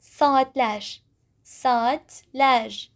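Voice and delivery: Saatler with a soft a near e. Shown as a demonstration. Teacher models saatler with the soft vowel. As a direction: say Saatler gently, vowel bright like e. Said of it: "It's so soft, so soft, like e".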